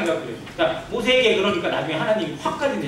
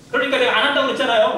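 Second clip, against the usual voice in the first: fast, higher-pitched mock protest; argumentative complaint; 4 semitones higher, 4 dB louder, faster than usual. Believer arguing with God and fellow members, indignant. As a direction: rattle off an acted I-told-you-so. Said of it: "막 그러면서 하나님한테 따지고".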